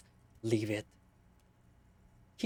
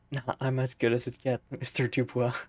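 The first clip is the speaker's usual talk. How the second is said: mock cool reply. Real, not acted.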